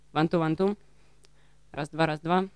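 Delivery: one-two, said the English way, then in Russian; English accent. Retold or imitated. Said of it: "как говорит американская пропаганда". (английский акцент)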